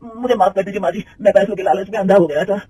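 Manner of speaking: a mild plea for mercy; pleading. Acted. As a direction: caught manager lightly begging forgiveness. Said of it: "गिड़गिड़ाते हुए कहता है".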